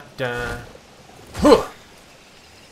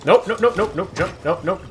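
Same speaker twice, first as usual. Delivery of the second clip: panicked nope; 6 semitones higher than usual. Real, not acted. Panicked dodging.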